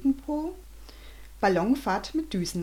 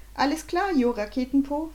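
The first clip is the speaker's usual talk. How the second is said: put-on higher girl's voice, cheerful; Charlotte; 6 semitones higher than usual. Girl greets her friend cheerfully, higher voice. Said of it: "fragte Charlotte".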